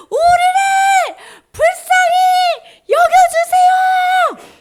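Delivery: high, slow, very loud plea; shouted plea. Acted. Ten lepers begging Jesus for mercy, drawn-out shout. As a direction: shout it out, stretching every phrase. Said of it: "막 소리를 지는 거야".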